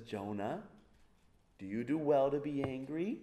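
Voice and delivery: put-on soft, gentle dad asking his child; quiet paternal question; calm fatherly question. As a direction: ask it like a patient father. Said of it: "dad comes over to little Jonah and says".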